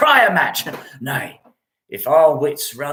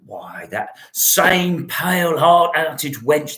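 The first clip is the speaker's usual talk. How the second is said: whisper; slower than usual. Acted. Mocking Romeo's lovesick state.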